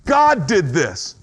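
slow, mildly acted accusation; mad at God. Preacher acting out a mourner mad at God, accusingly. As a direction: lay the blame word by word, drawn out. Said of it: "You're mad at God".

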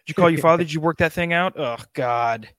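a loud, nagging demanding partner voiced as a cat. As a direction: hound him like a disappointed spouse. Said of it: "they look at you and they go".

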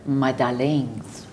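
put-on slow, drawn-out French accent; French-accented, unhurried imitation. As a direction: lightly imitate a French woman's endearment. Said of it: "in her beautiful French accent".

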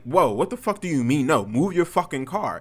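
heated re-enacted order; retold angry demand. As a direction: push back hard at the driver. Retold argument with the driver.

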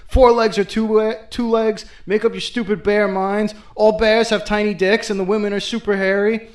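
half-yelled insults, playing it up; angry rant. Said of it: "screaming her head off".

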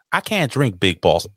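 lightly voiced Texas woman; Texas accent. Co-host retrying a viewer's comment, Texas accent. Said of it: "let me do this again".

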